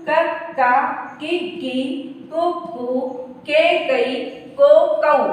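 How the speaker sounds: slow, syllable by syllable drill; barakhadi recitation. Shown as a demonstration. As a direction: read each syllable out for the class again. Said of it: "फिर से एक बार पढ़ती हूँ".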